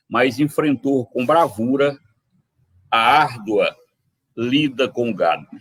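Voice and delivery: measured cordel recital; poem recital. Acted. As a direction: proclaim the verse like a sertão ballad. (declamando o cordel)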